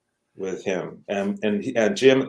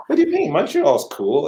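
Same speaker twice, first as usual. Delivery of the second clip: high, loud mock protest; 9 semitones higher, 5 dB louder than usual. Husband defends Montreal to his wife, protesting. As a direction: defend it in a raised, higher voice.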